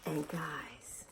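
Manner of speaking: hushed, halting, holding back emotion; trying not to get mushy. Real, not acted. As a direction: drop to a near whisper, fighting the feeling. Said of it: "try not to get mushy".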